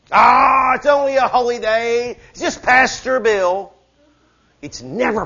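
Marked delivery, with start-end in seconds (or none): 0.1-3.7 mock dismissive. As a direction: brush it off like it's nothing. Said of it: "You think it's a small thing".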